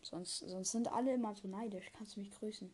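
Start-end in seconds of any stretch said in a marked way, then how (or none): 1.9-2.7 whisper. Retold or imitated. Repeats fan request whispered.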